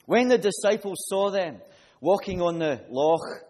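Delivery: preacher reading Matthew to the congregation; scripture reading. Acted. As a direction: read the passage out to the church with force. Reads scripture passage aloud.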